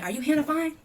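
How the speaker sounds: retold official shout, pitched well up; calling out. Police to woman in the car, imitated calling out.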